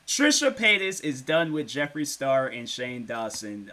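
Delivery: slow, careful "Trisha Paytas"; careful pronunciation. Shown as a demonstration. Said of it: "see, I almost did it".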